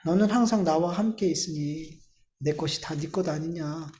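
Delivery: lightly voiced loving father, hushed; tender father. Father gently reassuring his resentful elder son, soft. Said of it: "그러니까 아버지가 뭐래요?".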